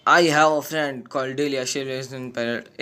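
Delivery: slow, deliberate reading of on-screen text; reading game dialogue. Acted. Gamer reads a stranger's lines aloud, slow and deliberate. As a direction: read each line out slowly like subtitles.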